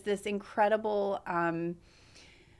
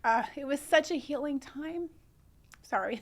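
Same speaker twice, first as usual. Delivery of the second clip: higher voice, welling up; choked up; 5 semitones higher than usual. Real, not acted. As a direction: start to tear up for real. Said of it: "I get choked up".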